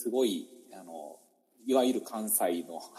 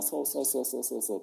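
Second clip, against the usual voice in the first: rapid-fire Kansai "そうそう" in a lightly put-on voice; thick Kansai chatter; 4 semitones higher than usual. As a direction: show off the old broad-Kansai teaching style. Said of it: "本当コテコテの関西みたい".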